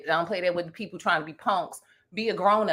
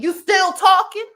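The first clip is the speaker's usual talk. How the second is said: retold challenge; 11 semitones higher, 7 dB louder, slower than usual. Retold confronting man leaving restaurant.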